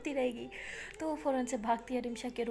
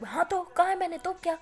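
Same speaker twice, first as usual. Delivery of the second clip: defiant retort; 4 semitones higher, 6 dB louder than usual. Acted. Friend defiantly admits insult.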